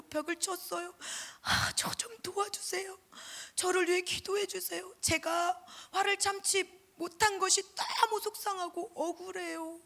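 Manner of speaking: put-on high, pleading retelling of a crying boy; a boy's tearful call to his pastor, voiced high and pleading; tearful phone plea. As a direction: imitate a boy crying down the phone, begging for help. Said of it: "아이가 울면서 목사님에게 전화를".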